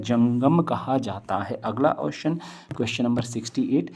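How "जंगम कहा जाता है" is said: जंगम drawn out slowly for the class to remember; slow drill of the answer जंगम; teacher emphasis. Shown as a demonstration. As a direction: repeat जंगम kहा जाता है slowly, stressing जंगम. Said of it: "क्या कहा जाता है?".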